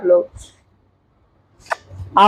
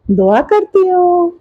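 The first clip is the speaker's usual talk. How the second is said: high, slow prompting line; feed the words to a baby, drawn out; speaking for baby; 7 semitones higher, slower than usual. Pretend. Grandmother telling baby what to say, high slow sing-song. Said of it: "कह दो".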